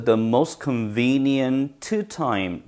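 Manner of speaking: "the most convenient time" with the t of "most" dropped, linked smoothly; dropped t sound. Shown as a demonstration. Teacher modeling "the most convenient time" slowly, t dropped. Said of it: "트 발음 없습니다".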